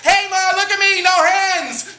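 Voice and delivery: put-on high excited child calling mom; little kid yelling for mom's attention; kid showing off. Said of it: "you were like".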